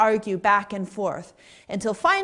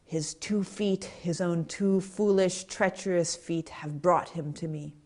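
softer, lightly retold mutter; muttering under breath; 5 dB quieter than usual. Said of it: "muttering under his breath".

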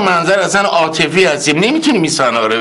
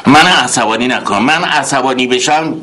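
tough interrogator; 2 semitones lower than usual. Acted. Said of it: "با صلابت محکم".

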